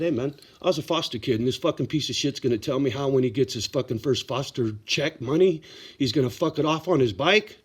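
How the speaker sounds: heated retelling of telling off the boss; rising anger, pushing the words out fast; worked up. Real, not acted. Retelling the boss why he walked out, heated and fast. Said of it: "Sorry, I get worked up".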